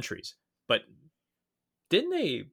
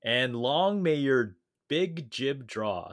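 put-on Newfoundland accent; 4 semitones higher, 4 dB louder, slower than usual. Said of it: "maybe I read it wrong".

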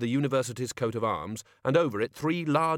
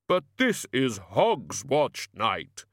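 grim reaper voice; much slower than usual. A narrator's reading. Death protesting, slow.

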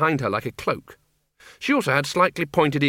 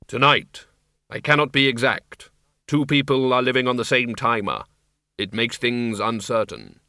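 grave, measured figure of Death; Death's voice. Acted. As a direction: speak as Death, calm and unhurried. Death explains.

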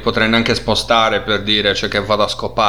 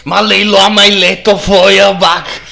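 pompous professor voice; 8 semitones higher, 7 dB louder, slower than usual. Retold or imitated. Imitating pompous TV philosopher.

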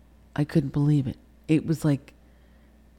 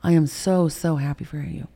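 mildly gushing congratulations; a touch of delighted warmth; retold happiness; 3 semitones higher than usual. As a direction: retell heartfelt congratulations, leaning on "so". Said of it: "I was happy for him".

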